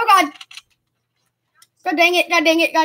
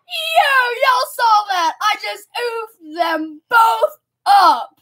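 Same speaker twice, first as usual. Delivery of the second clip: hyped yelling; much slower than usual. Real, not acted. Hyped after a double kill.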